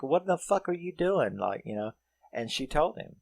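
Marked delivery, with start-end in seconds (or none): 0.0-1.4 mock bewildered outburst. He confronts her hiding in his car, mock high-pitched bewilderment. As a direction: imitate his baffled protest, pitch up. Acted startled man in car.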